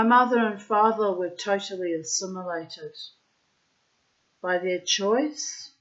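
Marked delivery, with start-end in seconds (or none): 4.4-5.7 put-on Russian accent. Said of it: "I'm putting in the Russian accent".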